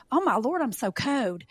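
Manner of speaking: "code" for cold, Southern, starting high; Southern exclamation with "code" for cold. Shown as a demonstration. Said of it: "I use a W. So I'll say".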